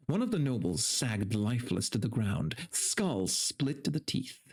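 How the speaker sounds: steady read-aloud narration; story narration. A narrator's reading. Streamer reading a fantasy tale to chat, steady narration.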